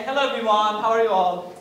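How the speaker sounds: hesitant hello, holding back; a hint of nerves in the hello; timid, unconfident greeting. Shown as a demonstration. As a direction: greet the room as if you are unsure of yourself. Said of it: "I'm not confident".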